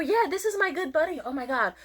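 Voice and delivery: high-pitched mock gushing; gushing introduction. Introducing a nameless buddy, high and gushing.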